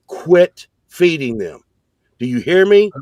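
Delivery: slow, firm command, rising on the question; stern retold order. Old guard lady to a scared man, stern and slow. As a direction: lay down the law, drawn out.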